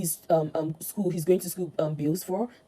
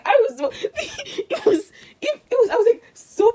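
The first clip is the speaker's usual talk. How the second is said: words breaking into high laughter; real laughter; 8 dB louder, slower than usual. Real, not acted. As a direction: laugh helplessly through the words. Laughs at the mother's reaction.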